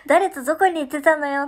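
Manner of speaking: 軽く再現した問い詰め口調; mock interrogation. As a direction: lightly replay the accusing line. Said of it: "カーナビの問い詰め方怖かった".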